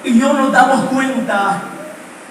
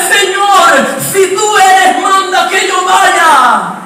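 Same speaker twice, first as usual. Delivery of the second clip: Peter's plea; 5 semitones higher, slower than usual. Retold or imitated. Peter voiced calling to Jesus.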